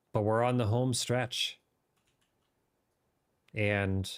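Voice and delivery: light British RP gaming voice; modern british accent. Pretend. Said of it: "there's my mini R P voice".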